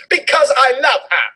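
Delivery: put-on teen boy shrieking his love; shrieked. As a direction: blurt the confession in a mock squeal. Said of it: "Draco shrieked".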